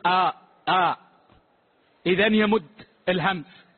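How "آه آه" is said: mock stretched آه sounds, pitched low; drawn-out breath. Worried worshipper mocking the muezzin's stretching. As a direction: lightly imitate the muezzin's long breath. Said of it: "قال مؤذننا يقول".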